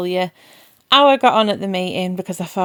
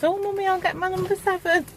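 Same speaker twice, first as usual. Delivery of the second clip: imitating daughter; 11 semitones higher, 4 dB quieter than usual.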